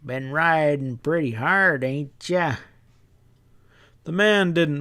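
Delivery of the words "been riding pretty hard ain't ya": a hint of a knowing stableman; sly stableman.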